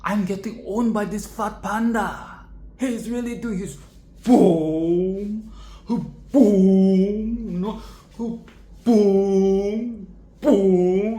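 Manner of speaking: hammed-up panic; mock shocked Tai Long. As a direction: play the beaten villain in disbelief. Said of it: "He's like".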